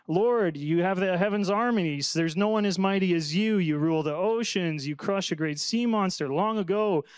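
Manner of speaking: earnest Bible reading, a touch lifted; scripture reading. Acted. Pastor reads Ethan's psalm to the class, earnestly. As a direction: read the psalm as a heartfelt prayer.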